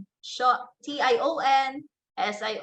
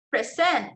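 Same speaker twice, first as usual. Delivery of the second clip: "present" as a verb, pre-SENT; stress on second syllable; 3 semitones higher than usual. Shown as a demonstration. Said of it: "the stress there is on the second syllable".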